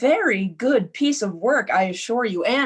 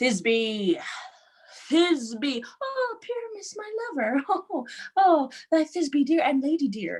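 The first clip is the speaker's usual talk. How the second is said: small, high little voice; 6 semitones higher, 3 dB quieter than usual. An actor asks to play Thisbe too and demonstrates Thisbe in a monstrous little voice. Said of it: "I'll speak in a monstrous little voice".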